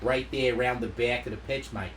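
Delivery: put-on light Australian accent. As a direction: sound like an Aussie commentator. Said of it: "that's my Aussie accent".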